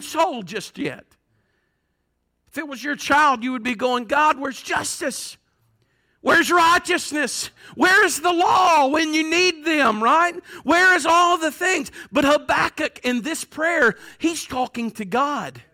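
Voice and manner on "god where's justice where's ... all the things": slow, mounting plea to God; impassioned demand. Acted. Parent of a wronged child asking God, impassioned demand. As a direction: build from measured question to raised demand.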